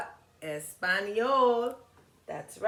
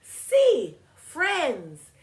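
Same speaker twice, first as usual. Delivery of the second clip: put-on higher, louder girlish voice; excited girl character; 9 semitones higher, 9 dB louder than usual. Girl in the picture book answering yes to friendship. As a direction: pipe up happily as the little girl.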